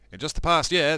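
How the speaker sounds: a hammed-up storyteller voice; narrator voice for case notes. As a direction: read it like a grand character voice. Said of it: "I don't know why I'm doing it in this voice".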